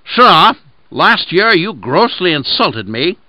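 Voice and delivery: wolf accusing the lamb to justify eating it. Acted. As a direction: lay out a false charge slowly. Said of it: "He thus addressed him".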